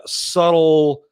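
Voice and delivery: "subtle" drawn out slowly; stress on SUBTLE. Real, not acted. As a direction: lean on "subtle" and stretch it. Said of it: "I stress the word subtle".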